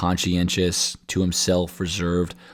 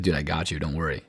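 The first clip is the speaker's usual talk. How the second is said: mock reassurance; 4 semitones lower, 7 dB quieter than usual. Voices teammate reassuring the blocked receiver.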